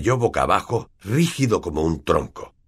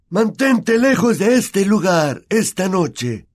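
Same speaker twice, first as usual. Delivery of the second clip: growled; 14 semitones higher, 5 dB louder, slower than usual. A narrator's reading. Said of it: "gruñó Harry".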